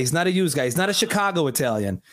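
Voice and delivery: a light take on his Italian-American dad; a hint of a hearty dad greeting; dad impersonation. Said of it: "my best dad impersonation".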